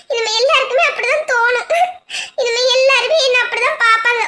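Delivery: bitter laugh mixed with crying; wife mocking her own bad luck, tearful; laughing through tears. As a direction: laugh miserably at herself.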